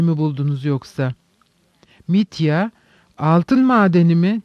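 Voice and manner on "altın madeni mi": exclaimed question, a little raised; mild exclamation. Acted. Mitya echoes Perhotin's gold mine question, exclaiming. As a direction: cry it out in mild surprise, rising at the end. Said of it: "diye haykırdı".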